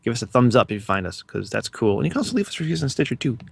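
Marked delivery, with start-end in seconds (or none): 2.0-3.4 rushed plug, words running together; talking fast. Real, not acted. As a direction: hurry through the podcast plug. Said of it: "I'm talking really fast".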